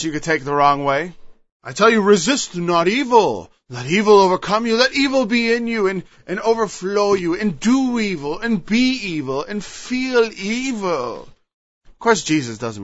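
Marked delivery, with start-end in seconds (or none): 1.6-11.2 mocking misreading. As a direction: parody a wrong reading of the verse. Mocking a twisted reading.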